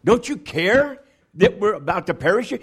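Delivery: frantic, rising question; panicked plea. Retold or imitated. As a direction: beg him to care as they sink. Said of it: "Pete goes up".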